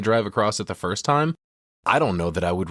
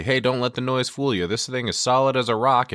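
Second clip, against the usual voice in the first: mock reassuring; 5 semitones higher than usual. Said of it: "Ash tries to reassure".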